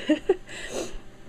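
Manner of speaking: a high, breathy little laugh through tears; teary high laugh. Real, not acted. Daughter laughing through tears over dad's photo. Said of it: "I'm getting teary-eyed".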